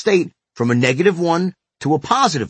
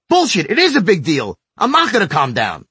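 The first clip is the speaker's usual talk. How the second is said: imitating angrier kid; 3 semitones higher than usual. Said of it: "he'd get even madder".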